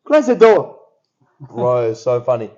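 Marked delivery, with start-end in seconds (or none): 0.0-0.8 higher, louder, a hint of an Asian-accented dad; Asian accent impression. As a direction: bark it like the dad. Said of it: "I'm making him sound like Asian".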